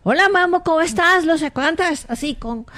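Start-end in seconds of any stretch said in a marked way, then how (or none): 0.0-1.2 firm, slightly raised greeting to a dog. Shown as a demonstration. Child shows how to address the dog, firm voice. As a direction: greet the dog plainly and firmly. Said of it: "con voz fuerte".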